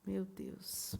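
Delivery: breathless whispered gasp of dread; shocked whisper. Real, not acted. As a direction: whisper it as if the ghost could hear. Listener reacts to scary story.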